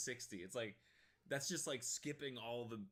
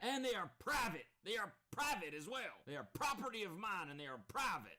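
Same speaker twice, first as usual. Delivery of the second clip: mock Karen; 10 semitones higher than usual. Streamer mocking the sister backing up grandma, squeaky. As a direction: squeak out the sidekick's backing line. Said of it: "this chick's just ad-libbing".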